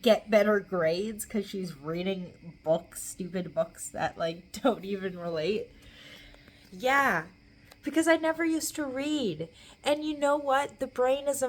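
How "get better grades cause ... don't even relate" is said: mock the doubters with scorn; sarcastic mocking. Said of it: "Okay, it's like".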